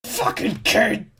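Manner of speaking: high, slow mock-angry outburst; mock exasperation. Parent stumped by a child's magnet question, mock exasperated.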